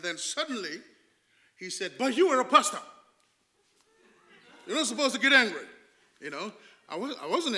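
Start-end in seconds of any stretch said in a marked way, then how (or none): 2.0-5.7 laughing retort. Retold or imitated. Shopkeeper's retorted words, laughing.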